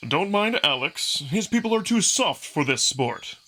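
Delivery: brash wolf fighter inviting punches; cocky young wolf. Acted. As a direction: egg him on with a grin. Amicus mocks Alex.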